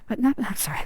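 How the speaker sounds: laughing nervously mid-sentence. Real, not acted. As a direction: break into an awkward nervous laugh. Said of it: "that's a nervous laugh".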